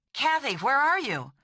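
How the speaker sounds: high, swooping eager question; openly excited, pitch leaping up. A narrator's reading. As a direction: burst out with undisguised eagerness. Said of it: "he inquired with undisguised eagerness".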